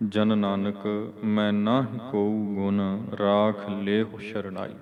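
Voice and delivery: slow, measured reading of sacred verse; scripture recitation. Shown as a demonstration. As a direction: draw out the vowels, pause between phrases.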